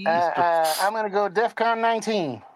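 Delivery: impression of a rapper with Southern accent. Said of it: "why does Kanye have a Southern accent".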